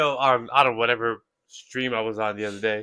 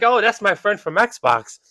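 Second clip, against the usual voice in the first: mock sheepish guy; 7 semitones higher, 6 dB louder, slower than usual. Retold guy explaining at door.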